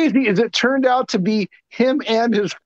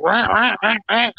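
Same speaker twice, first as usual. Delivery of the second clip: mock distorted voice. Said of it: "like, digitized".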